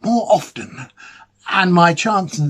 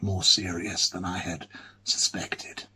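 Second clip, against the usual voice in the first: fading whisper; 6 semitones lower, 9 dB quieter than usual. Acted. Admitting a fear about his illness.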